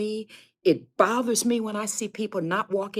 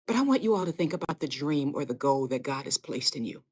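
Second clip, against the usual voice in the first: ordinary delivery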